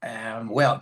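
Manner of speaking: breathy, stalling um and well in a whisper; hesitant whisper. Retold or imitated. Telling Tim he'd rather not fly, in a hesitant whisper. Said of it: "I said".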